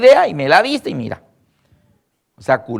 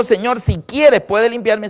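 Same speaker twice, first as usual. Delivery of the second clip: leper pleading; 5 semitones higher, slower than usual. Retold or imitated. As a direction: beg it with urgent faith. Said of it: "Cuando el leproso dijo".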